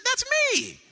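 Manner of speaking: preacher imitating his grandson's delighted yell; excited toddler shout. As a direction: shout it like a thrilled three-year-old. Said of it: "He said".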